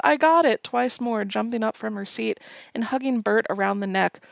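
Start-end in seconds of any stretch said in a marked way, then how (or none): 0.1-0.6 high, loud shrieking joy; mock ecstatic squeal; excited scream. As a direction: scream it like you just won the jackpot. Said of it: "And Emily screams".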